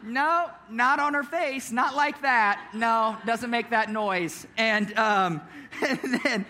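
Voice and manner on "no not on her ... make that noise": disbelieving dad. Retold or imitated. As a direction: draw out each objection as an unconvinced father. Dad disbelieving son's excuse.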